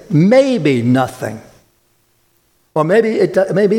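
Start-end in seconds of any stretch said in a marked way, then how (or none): 0.1-1.4 mock doubtful reading. Shown as a demonstration. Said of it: "It doesn't say".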